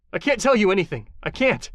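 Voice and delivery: scared to talk; frightened refusal. Acted. Captive refusing in fear.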